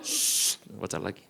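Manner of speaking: whispered preacher's hush. Retold or imitated. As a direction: hush them and go back to reading. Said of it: "cuma bilang gini".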